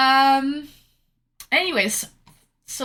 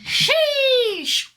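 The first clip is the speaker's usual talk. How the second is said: high, drawn-out laughing sheesh; 12 semitones higher, 3 dB louder than usual. Real, not acted. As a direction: exclaim through a laugh. Exclaiming with a laugh.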